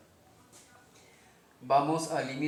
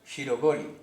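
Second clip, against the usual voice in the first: "Shirogoli" with the accent on GO, said louder; stress on second syllable; 5 dB louder than usual. Shown as a demonstration. Teacher models the accent rule, "Shirogoli" stressed on GO. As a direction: hit GO in "Shirogoli", the middle of shiro-GO-li. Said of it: "se le marca en la segunda sílaba".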